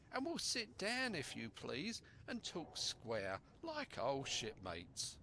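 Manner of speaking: lightly voiced smooth sea dog, slowing at the end; a hint of a crafty buccaneer; sly pirate. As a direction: bargain smoothly, all false friendship. Black Dog bargaining.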